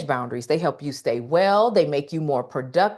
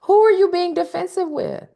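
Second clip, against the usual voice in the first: pointed retold question; 5 dB louder, slower than usual. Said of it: "and I said".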